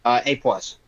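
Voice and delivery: underwhelmed, half-hearted grade; disappointed. Real, not acted. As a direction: give the verdict with little enthusiasm. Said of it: "You sound so disappointed".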